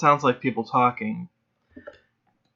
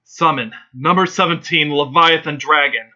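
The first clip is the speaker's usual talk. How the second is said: mild mock shout; 3 semitones higher, 5 dB louder than usual. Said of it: "you hear him shout".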